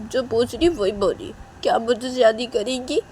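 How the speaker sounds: acted pleading insistence; insistent demand. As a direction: push the question with rising urgency. Nidhi presses Riya for an answer.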